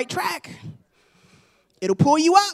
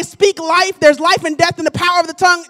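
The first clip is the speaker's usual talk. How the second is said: word of God; 4 dB louder than usual. Retold or imitated. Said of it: "hear the word of God say".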